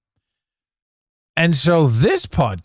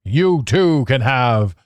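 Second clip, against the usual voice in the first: fifties TV announcer. Pretend. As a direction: sell it like a fifties futuristic TV ad. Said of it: "what people thought the future was in the fifties".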